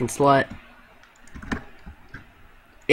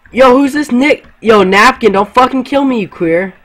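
yelling; 9 semitones higher, 6 dB louder than usual. Real, not acted. Panicked yelling at teammate.

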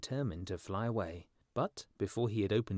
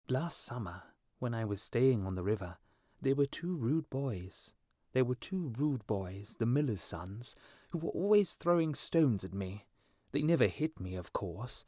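animated, offended bird character; indignant little swallow; 2 semitones higher than usual. Acted. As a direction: complain with wounded pride. Swallow complains about rude boys.

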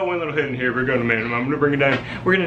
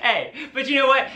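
helium voice; 7 semitones higher than usual. Real, not acted. Helium voice, laughing.

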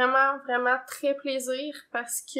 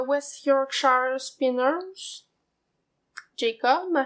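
Québécois English accent; 3 dB louder, much slower than usual. Real, not acted. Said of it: "avec mon accent anglais habituel".

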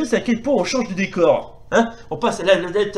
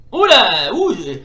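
sudden loud startled cry; jolted, loud gamer reaction; startled yelp; 6 dB louder, slower than usual. Real, not acted. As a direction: yelp as a blow nearly lands. Caught out by opponent's attack.

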